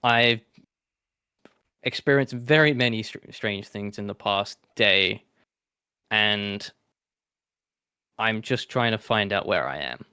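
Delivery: sly sticky chameleon; a lightly voiced lizard, sly and hissy. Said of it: "in my lizard tone, I'll say".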